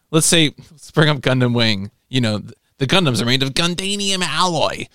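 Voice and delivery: grave commanding briefing; a lightly voiced stern general; General Septim voice. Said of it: "it's my General Septim voice".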